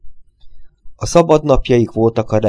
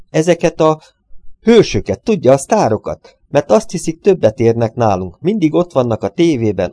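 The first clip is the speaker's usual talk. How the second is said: higher, louder bitter tirade against the stars; high resentful rant; 6 semitones higher, 4 dB louder than usual. A narrator's reading. The little man rants to the detective, high and bitter. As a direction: spit out his grudge against the rich heroes.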